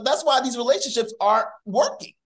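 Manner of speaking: laughing as he picks his point back up; laughing restart. Real, not acted. Restarting his point while the others laugh, laughing. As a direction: chuckle through the restart.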